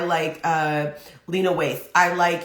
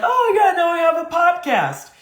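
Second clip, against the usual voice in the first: high, loud mock-celebrity brag; celebrity announcement; 10 semitones higher, 5 dB louder than usual. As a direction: announce it in a raised, put-on voice. Acting out a boasting celebrity's announcement.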